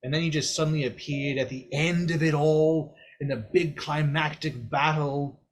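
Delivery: put-on blunt, teasing old figure explaining death; Mor'du. Mor'du explaining to the hero that he died, teasing. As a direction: lean in and lecture with cheeky bluntness.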